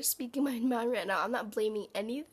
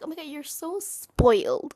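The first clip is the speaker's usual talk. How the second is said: mock loud accusation; 3 semitones higher, 9 dB louder than usual. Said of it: "they're like".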